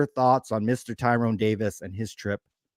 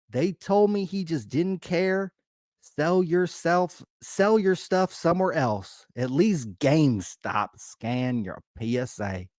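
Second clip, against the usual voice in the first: Southern accent; 3 dB louder, slower than usual. Shown as a demonstration. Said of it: "a little Southern accent".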